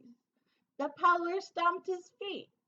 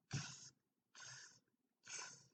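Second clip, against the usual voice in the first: monkey tss; 23 dB quieter than usual. A narrator's reading. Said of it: "and said".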